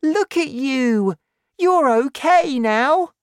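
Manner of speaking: put-on high, loud, excited boy; delighted crying out. A narrator's reading. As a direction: exclaim with joy, pitched very high. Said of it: "George cried".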